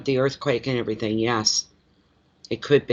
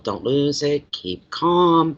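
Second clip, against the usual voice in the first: self-coaching; 2 semitones higher, 3 dB louder, much slower than usual. Retold or imitated. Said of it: "talk to myself".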